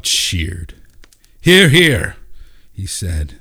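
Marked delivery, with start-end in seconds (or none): 1.4-2.2 high, loud rousing call; hearty cheer. A narrator's reading. Crowd member cheering the mayor's announcement, loud and high.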